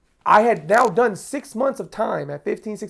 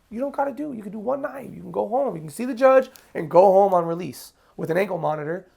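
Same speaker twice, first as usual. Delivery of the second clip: good cop; 2 semitones higher than usual. Retold or imitated. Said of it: "Good cop comes in".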